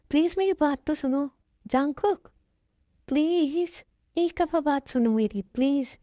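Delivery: acted desperate plea; pleading. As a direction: implore him to listen. Begging him to stop and listen.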